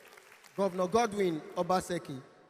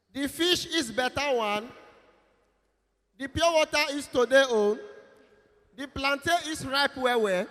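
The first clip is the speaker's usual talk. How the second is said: hawker's call; 4 semitones higher than usual. Retold or imitated. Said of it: "You can't hear something like".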